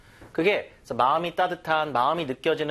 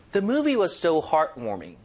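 slow clear reading; much slower than usual. Shown as a demonstration. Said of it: "읽어볼게요".

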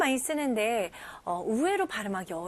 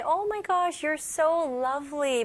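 gushing compliment; 4 semitones higher, much slower than usual. Shown as a demonstration. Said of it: "사람한테".

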